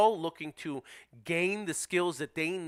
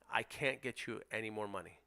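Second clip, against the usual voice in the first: softer, calm buyer's pitch to the seller; calm, reassuring script; 5 semitones lower, 10 dB quieter than usual. Shown as a demonstration. Investor calmly telling the sellers he can't pay more. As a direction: reassure the seller gently, firm underneath. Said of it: "that's how you handle that objection".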